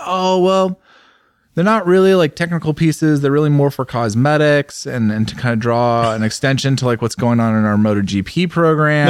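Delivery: breezy evasive spokesman; high breezy PR voice. Retold or imitated. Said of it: "they're like".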